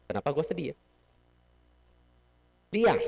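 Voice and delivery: ordinary talk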